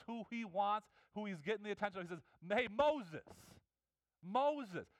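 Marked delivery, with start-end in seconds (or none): 2.5-4.9 louder, falling call of a name. Retold or imitated. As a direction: call out to him personally. God calling Moses by name.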